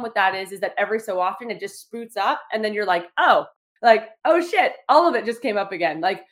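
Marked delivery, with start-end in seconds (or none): 3.2-6.0 startled realization. Retold or imitated. Buried feelings suddenly resurface, mock-startled outburst. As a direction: caught off guard as it all bursts back up.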